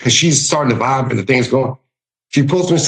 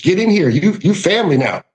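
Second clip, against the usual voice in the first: higher-pitched family welcome; open-armed Southern hospitality; welcoming call-in; 4 semitones higher than usual. Retold or imitated. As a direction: welcome them in like one of your own. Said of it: "the get in here approach".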